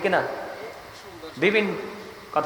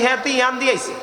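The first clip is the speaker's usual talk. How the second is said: Noakhali dialect; 4 semitones higher, faster than usual. Retold or imitated. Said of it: "Noakhali লাকসামে তারা কি করে?".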